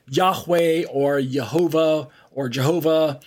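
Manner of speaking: "Yahweh", "Yehovah", "Jehovah" given as alternative readings of one name; alternative pronunciations. Shown as a demonstration. Teacher listing ways the Tetragrammaton is pronounced, alternative pronunciations. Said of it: "Otherwise pronounced".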